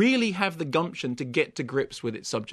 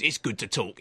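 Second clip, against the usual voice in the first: lightly voiced Hoskins ad line, lower; a hint of the cheery cockney ad voice; Bob Hoskins impression; 5 semitones lower than usual. Critic mimics Hoskins's phone advert, lightly voiced. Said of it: "When he does Bob Hoskins".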